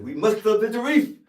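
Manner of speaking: put-on very loud, high Caribbean-accented cry; Caribbean accent shout. Actor delivers first film line on the ship, shouting in Caribbean accent. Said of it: "I want it in a Caribbean accent".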